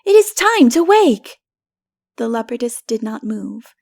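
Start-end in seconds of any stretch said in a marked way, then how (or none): 0.0-1.4 put-on much higher, loud little boy; eager child insisting; child calling. A narrator's reading. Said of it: "he cried".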